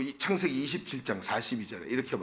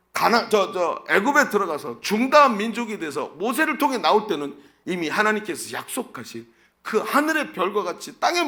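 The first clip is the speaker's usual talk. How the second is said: loud, raised-pitch preaching; 5 semitones higher, 6 dB louder than usual. Real, not acted. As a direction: drive the promise home to the congregation at full force. (목소리를 높여 힘주어 선포하는 설교)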